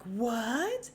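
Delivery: whispered, breathless "What?" rising; hammed-up shocked whisper; mock dramatic gasp. Mocking Dorit's overdramatic reaction, whispered. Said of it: "and Dorit's like".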